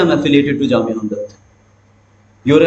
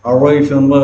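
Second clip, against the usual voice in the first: imitated British accent, voice held back in the mouth; lightly mimicked British way of saying the name; British pronunciation; 2 semitones lower than usual. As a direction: swallow the name like a mock Britisher. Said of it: "goes more into their mouth rather than coming out".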